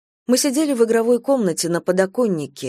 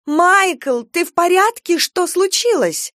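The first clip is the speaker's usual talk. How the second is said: high, loud frantic questions; panicked mother; 11 semitones higher, 4 dB louder, slower than usual. A narrator's reading. Mother frantically asks her hurt son, high and loud. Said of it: "Она повысила голос".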